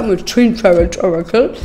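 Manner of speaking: Twin Tarot Oracle again, playfully owning the heavy French accent; self-mocking French accent. Shown as a demonstration. Tarot reader mocking her own English, exaggerated French accent. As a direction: repeat the English name, laughing at your own accent. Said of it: "Mon accent qui fait peur".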